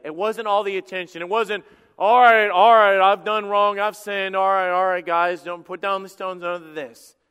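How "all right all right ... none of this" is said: loud, high, panicked pleading; desperate confession. Acted. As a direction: beg them to drop the stones, shouting. Sinner confessing before being stoned.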